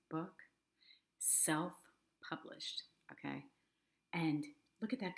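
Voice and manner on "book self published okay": hushed, slow secret-telling whisper; stage whisper. Real, not acted. Host to viewers, praising the book, in a stage whisper. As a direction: breathe the word like a delightful secret. Gushing aside about self-published book.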